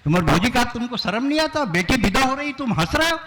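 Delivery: scolding question. Retold or imitated. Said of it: "ऐसे कहा".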